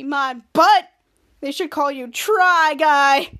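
loud, slow teasing jab; mock taunt. A wol goads Sweaty Eddie with a loud, slow teasing insult. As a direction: drag out the insult to goad him.

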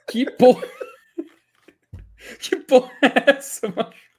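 laughing in disbelief; words breaking into laughter. Real, not acted. Absurd recorded phone message.

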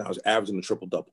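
fast rushed statement. Real, not acted. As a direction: blurt it out quickly. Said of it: "No, I'm sorry".

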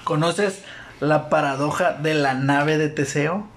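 slow, musing question; mock philosophical Vision. Vision poses the riddle to his double, slow and musing. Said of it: "Le dice el Vision de color".

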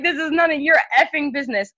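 mock angry retort. Repeating her retort, louder.

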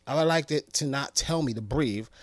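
normal talking voice

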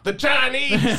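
high paranoid Southern drawl; hissed Southern warning; Southern conspiracy theorist. Acted. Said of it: "conspiracy theorist voice is a Southern accent".

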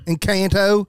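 Encanto in a hammed-up Yankee drawl; mock Northern American accent on Encanto. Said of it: "like a Yankee".

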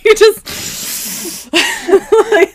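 words squeezed out through giggles; trying to talk but cracking up; stifled giggles. Real, not acted. Giggling fit while recording.

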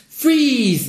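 squeaky high, loud Freeze!; failed macho freeze. Retold or imitated. Gay guy trying to sound like a cop, squeaky high. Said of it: "you have to say, like, 'Freeze!'".

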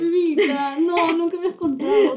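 tearful. Real, not acted. Hears a painful confession.

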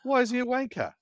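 high-pitched, amused challenge; laughing question. Real, not acted. Laughing at the retold insult.

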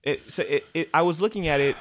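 stumbling over repeated words; real stutter, restarting words. Real, not acted. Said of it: "I'm stuttering a lot right now".

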